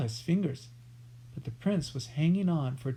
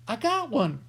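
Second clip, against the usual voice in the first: cackle; 7 semitones higher, 4 dB louder than usual. A narrator's reading. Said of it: "cackled Cutwater".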